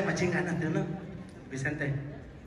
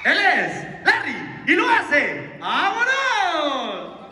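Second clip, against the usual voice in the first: announcer voice; slower than usual. Pretend. Announcer introduces dancer.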